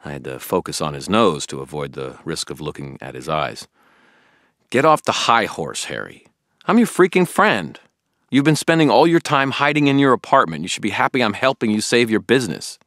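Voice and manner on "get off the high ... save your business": raised, higher, loud exasperated rebuke; frustrated shouting; angry friend. A narrator's reading. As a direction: yell at a stubborn friend. Billy angrily confronts Harry.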